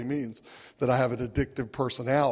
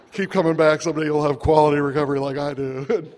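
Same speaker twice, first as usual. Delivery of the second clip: put-on louder, patronizing old-timer parody; mock smug advice; 6 dB louder than usual. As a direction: talk down to the newcomer in jest. Mocking his smug past self.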